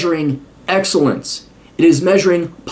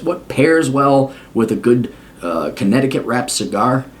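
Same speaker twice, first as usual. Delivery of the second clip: snooty elitist; 4 semitones lower than usual. Pretend. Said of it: "not to sound like a snooty elitist".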